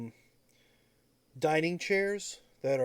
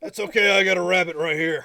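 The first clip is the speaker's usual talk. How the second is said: character voice; 3 semitones higher, 9 dB louder than usual. Acted. GM voices Seymour, loud and bright.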